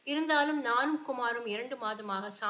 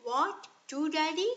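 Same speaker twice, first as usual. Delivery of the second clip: child's mocking laugh; 6 semitones higher, 5 dB louder, much slower than usual.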